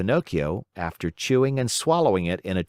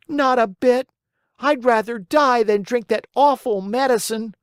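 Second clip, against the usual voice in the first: put-on defiant puppet boy; 9 semitones higher, 4 dB louder than usual. A narrator's reading. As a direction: refuse the fairy stubbornly. Pinocchio defiant in story.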